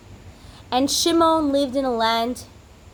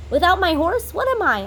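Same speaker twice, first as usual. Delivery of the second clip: despairing cry; 8 semitones higher, 4 dB louder than usual. Acted. Taxi driver laments lost horse.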